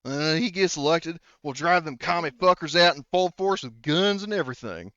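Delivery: lightly voiced rural campaigner; John. Brother promising to drive out the Russians, lightly acted country bluster. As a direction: talk up your candidate with a touch of hillbilly bluster. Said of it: "then John says".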